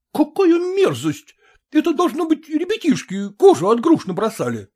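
disgusted officer. A narrator's reading. Officer finds peel on the floor, disgusted. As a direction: spit out the disgust.

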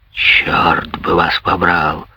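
low, slow angry growl; grumbling Menier, furious at the mocking student, growls low. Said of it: "прорычал Андри Менье".

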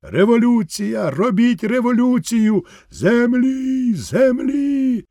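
peasants' land talk building to a high cry; peasant voices. Acted. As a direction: grow from a murmur to a demand. Peasants arguing over land.

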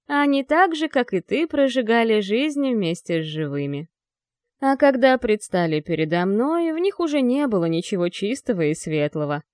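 loom over her as a dark lord. Acted. Demon lord answers the angel.

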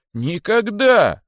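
very high, loud, drawn-out refusal; outraged cry. A narrator's reading. Boa refusing to be made to swallow the rabbit, long loud cry. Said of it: "воскликнул удав".

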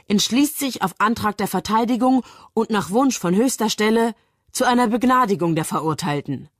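reading out decree. A narrator's reading. Bell reads out the pardon, proclaiming it. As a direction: read it out as a formal announcement. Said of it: "liest Bell".

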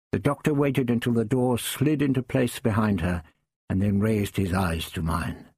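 usual speaking voice

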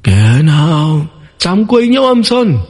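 high, slow, drawn-out ghost voice; demonic double voice. Acted. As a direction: drag the words out like a ghost at the gate. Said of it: "giọng quỷ kéo dề".

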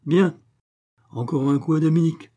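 high, loud exasperated outcry; exclaiming. A narrator's reading. Wife hearing glass break in the next room, crying out. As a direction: burst out, pitched well up. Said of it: "s'écria madame Lahuche".

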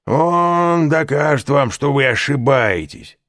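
high, loud tipsy voice; drunken praise. A narrator's reading. Caderousse brags about Danglars to Fernand, high and loud. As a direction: boast about your clever friend.

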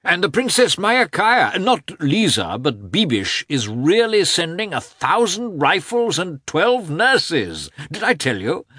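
high-pitched, eager society lady; eager princess. Acted. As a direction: voice a princess keen to be proved right. Voices the princess in dialogue.

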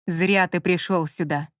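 menacing slow words through teeth. Acted. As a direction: drag it out coldly through teeth. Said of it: "процедил Лемонти".

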